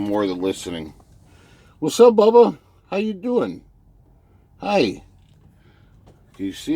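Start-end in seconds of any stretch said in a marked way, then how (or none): 1.8-3.6 high, loud greeting to a dog; pet talk. Real, not acted. Driver greets his dog Bubba, high pet talk. 4.6-5.0 high little greeting to a pet; pet talk. Real, not acted. Driver says hi to his dog, high pet talk.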